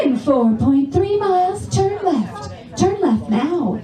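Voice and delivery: lightly imitated calm navigation voice; mild mock sat-nav, slowed; GPS voice. Comic mimics the car GPS lady, lightly. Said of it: "this woman's voice that tells you".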